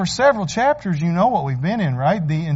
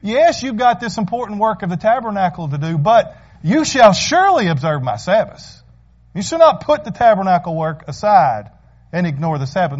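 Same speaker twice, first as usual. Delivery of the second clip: voicing God's caution. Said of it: "God gives them a word of caution".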